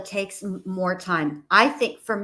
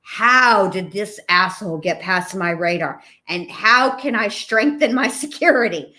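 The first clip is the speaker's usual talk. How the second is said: louder, half-laughing rant at herself; mock exasperated self-talk; 5 dB louder than usual. Woman fuming at herself after being fooled, mock-angry. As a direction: scold yourself for letting someone slip past, laughing. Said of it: "And I'm like".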